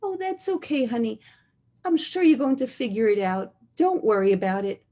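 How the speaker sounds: lightly voiced sweet reassurance; sweet bride's voice. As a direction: soothe him gently like a new bride. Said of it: "I had that kol kala".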